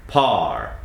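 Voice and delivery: par said with a long, crisp American R; par, the R held and rolled back from the throat. Shown as a demonstration. Coach building park from R, crisp R. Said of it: "put a P in front".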